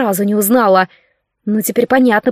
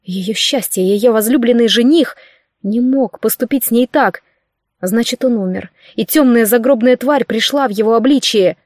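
plain reading voice

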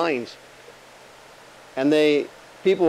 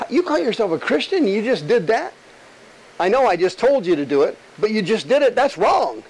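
accusing demon; 4 semitones higher than usual. Retold or imitated. Demon voiced condemning the believer.

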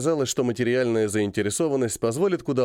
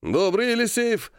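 good-natured; 10 semitones higher than usual. Acted. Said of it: "благодушно отозвался полковник".

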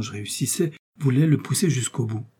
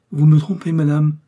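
higher, louder accusation; accusing; 4 semitones higher, 7 dB louder than usual. A narrator's reading. Novice accusing Milady of deceiving her, accusing. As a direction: confront her forcefully.

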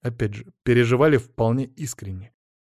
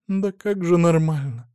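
higher, slowed motherly wailing, understated; mild lament; 6 semitones higher, 3 dB louder than usual. A narrator's reading. Mother to her son after his release, lightly lamenting. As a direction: lament it lightly, pitched up and drawn out. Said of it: "запричитала она".

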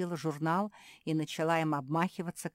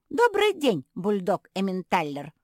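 much higher, louder, declaimed; recited greeting; 5 semitones higher, 10 dB louder than usual. Acted. Josie reciting a greeting to the bulldog, declaimed high. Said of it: "продекламировала Жози".

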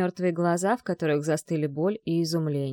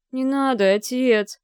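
hopeless whimper; 6 semitones higher, 5 dB louder, slower than usual. A narrator's reading. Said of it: "безнадёжно проскулил Кирилл".

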